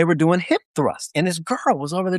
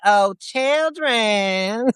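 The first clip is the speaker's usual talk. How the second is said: drawn-out, higher-pitched character voice; Major Payne; 6 semitones higher, much slower than usual. Acted. Co-host impersonating a movie drill instructor, drawn-out mock voice. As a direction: stretch each word out, pitched up. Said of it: "Do Major Payne".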